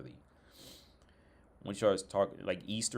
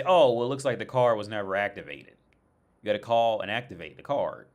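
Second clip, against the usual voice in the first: louder, matter-of-fact customer-service tone; bank rep voice; 7 dB louder than usual. Retold or imitated. Bank rep telling him to call Visa, louder and matter-of-fact. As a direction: lay down the rule loudly as the rep.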